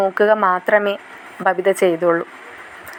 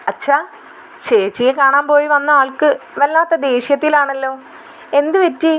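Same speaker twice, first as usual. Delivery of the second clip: put-on raised, lightly childish girl asking her father; little girl voice; 5 semitones higher than usual. Younger daughter asks father why her sister is upset, lightly childish girl voice. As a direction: play the curious younger daughter. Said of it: "Krishnamol പോയി അച്ഛനോട് പറയുന്നുണ്ട്".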